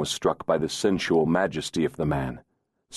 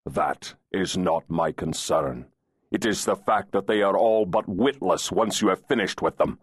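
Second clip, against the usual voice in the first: insolent fairy voice. Acted.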